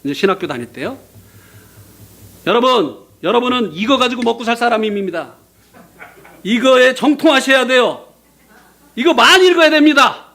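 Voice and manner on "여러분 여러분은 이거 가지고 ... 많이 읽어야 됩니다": chapel speaker. Retold or imitated. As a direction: lecture the students like a guest pastor. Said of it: "어떤 목사님이 와가지고". (채플 목사님 말투 흉내)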